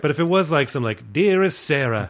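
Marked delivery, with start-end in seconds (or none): 1.1-2.1 hint of an old-timey letter reader; lightly voiced old-fashioned narrator. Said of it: "Fucking put an old-timey voice over it".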